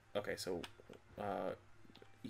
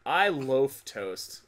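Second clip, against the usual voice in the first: slow pun delivery; 2 semitones higher, 8 dB louder, much slower than usual. Pretend. Pun said slowly.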